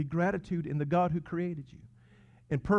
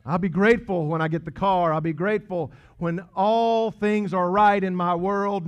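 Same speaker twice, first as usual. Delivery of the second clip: preacher voicing a grumbler who puts off thanks; imitating a whiner; 4 semitones higher, 6 dB louder than usual. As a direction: voice the person who waits to be grateful, hammed up. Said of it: "quoting a complaining listener".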